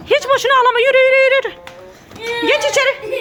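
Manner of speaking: yüksek ve sert, yürü diye bastırarak; ağlayan çocuğu sertçe sustur; azarlama. Real, not acted. (ağlayan çocuğa kızgın anne)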